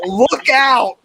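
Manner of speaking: high mock-alarm cry; imitated warning. Imitating the singer warning the children, high mock alarm. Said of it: "is she warning the children".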